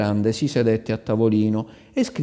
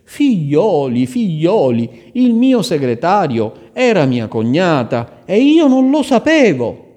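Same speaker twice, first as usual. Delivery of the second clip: amazed exclamation; 7 semitones higher, 8 dB louder than usual. Acted.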